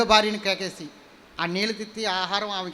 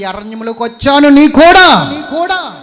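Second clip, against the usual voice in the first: building to a loud, higher shout; preaching shout; 6 semitones higher, 15 dB louder, slower than usual. Real, not acted. Preacher shouts to congregation that God goes with them. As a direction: hammer the promise home to the crowd.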